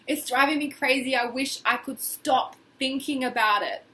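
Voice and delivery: emphatic and fed up; exaggerated frustration. Shown as a demonstration. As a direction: really lean into the frustration. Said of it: "Really say it the way I'm saying it".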